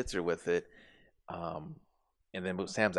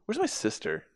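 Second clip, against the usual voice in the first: whispered; 6 semitones higher than usual. Retold or imitated. Impatient during medical questions.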